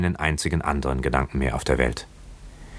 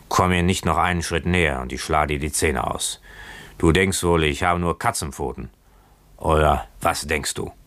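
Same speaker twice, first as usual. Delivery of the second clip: lightly voiced drunken sailor; drunken boatswain. Drunk boatswain threatening Keawe over the bottle, lightly drunken threat. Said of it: "wie die eines gänzlich Betrunkenen klang".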